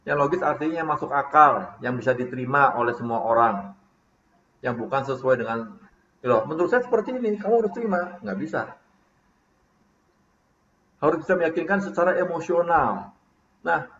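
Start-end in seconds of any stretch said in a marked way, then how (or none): 6.2-8.2 higher and quicker, insisting on your own view; pushy know-it-all. Retold or imitated. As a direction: demand they just accept it. Contoh meyakinkan dengan cara tidak logis. (memaksakan pendapat, nada tinggi dan cepat)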